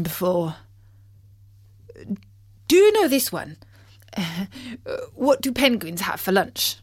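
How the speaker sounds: an eager joker frog. Acted. Bertie frog voice.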